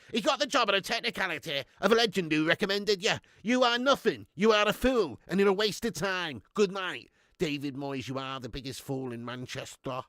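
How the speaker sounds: hammed-up contemptuous putdown, lightly voiced; Andy Tate impression. Streamer retelling his impression for Andy Tate himself, mock sneering rant. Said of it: "I did do an Andy Tate impression".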